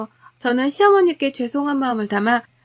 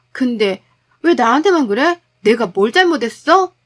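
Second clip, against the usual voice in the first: mildly heated wife, louder towards the end; indignant wife; 3 dB louder than usual. Acted. Wife answering her husband's blame, indignant. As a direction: argue back, demanding fairness.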